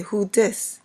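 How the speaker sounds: casual New York "Who dis?"; New York accent. Shown as a demonstration. Vlogger showing how New Yorkers talk, casual New York accent. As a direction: get straight to it, New York style. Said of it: "That's how we talk".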